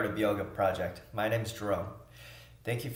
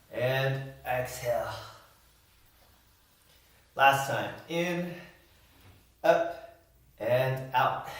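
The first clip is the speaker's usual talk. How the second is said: breathing cues. Real, not acted. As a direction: call out each breath in rhythm with the movement. Leads a breathing exercise.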